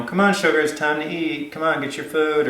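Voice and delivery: demo dog call. Shown as a demonstration. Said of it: "call your dog away and say".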